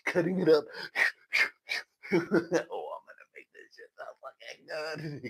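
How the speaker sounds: high, loud giddy glee; squealing with glee; giddy excitement. Retold or imitated. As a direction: hype yourself up over the stash. Excited cutting coke.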